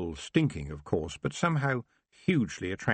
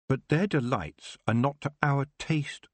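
put-on higher, bold young witch's challenge; proud, pitched-up challenge; defiant young witch; 7 semitones higher than usual. A narrator's reading. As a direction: face them down as a young witch. Young witch answers the king.

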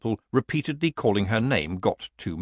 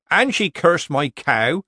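higher, louder villager voice playing innocent; nervous villager; 6 semitones higher, 5 dB louder, slower than usual. A narrator's reading. Villager pretending innocence to Nanny Ogg. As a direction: feign surprise like a bad amateur actor.

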